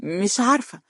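a vocal shrug, pitch lifted; puzzled. A narrator's reading. She tells Amr she does not know, puzzled. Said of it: "رفعت كتفيها بحيرة وهي تقول".

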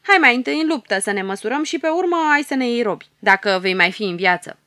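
a small hero daring the bearded ruler to fight; defiant. Acted. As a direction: stand up to the bully fearlessly. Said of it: "are curajos și îl înfruntă".

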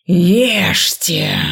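hissed threatening order; menacing whisper. A narrator's reading. Dean's third demand.

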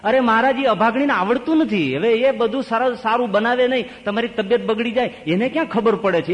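indignant elder sister. Acted. Elder sister loudly belittling younger.

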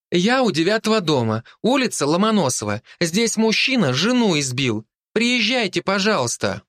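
put-on a little girl begging police to come; urgent girl. A narrator's reading. Girl reports a beating to police, high pleading.

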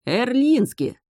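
high startled exclamation; gasp of surprise. A narrator's reading. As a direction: gasp the name in shock. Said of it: "ахнул Дейжин". (ахнув, высоко)

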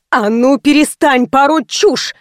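slow, stern shout of a boss; angry yell. A narrator's reading. Veronika shouting down Anzhela, angry and slow. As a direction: bellow at the hysterical girl. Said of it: "заорала Вероника".

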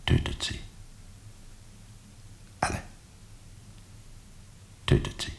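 hissed whisper of a hateful cry; a scream held down to a voiceless whisper. Acted. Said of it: "der schreit". (geflüsterter, hasserfüllter Schrei)

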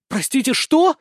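high rising shocked question. Acted. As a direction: gasp out the question in disbelief. Zoe shocked by proposal. (потрясённо, высоко, с подъёмом)

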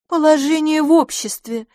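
высоко и громко, с нажимом; подчеркнуть каждое слово; weighty. A narrator's reading. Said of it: "сказала мисс Лафос". (веско, с нажимом)

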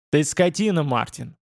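a half-voiced angry bark; mock bark. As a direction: snap the insult out sharply. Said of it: "гаркнул он".

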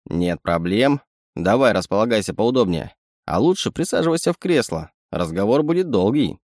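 a sly little animal sidekick; sly chittering raccoon. Acted. Raccoon speaks.

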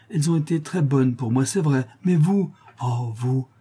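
a hint of a rough, devoted prisoner; voiced prisoner woman. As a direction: pour out thanks to your benefactress. Mont-Saint-Jean's grateful outpouring.

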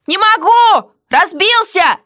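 high, slow, mocking heroine; defiant heroine. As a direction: tease the jailer back, slowly. Heroine voiced in dialogue.

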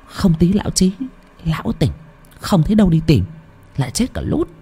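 high, piercing woman's voice; shrill-voiced Mụ Hai. A narrator's reading. Mụ Hai urging Nam to finish it, high piercing voice. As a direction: pitch it up sharp and carrying. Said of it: "cất cái giọng lanh lảnh".

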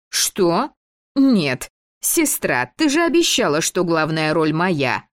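высоко, обиженно возмущаясь; потребовать обещанное у сестры; возмущённо. Acted. Девочка протестует, требует главную роль. (обиженно и возмущённо)

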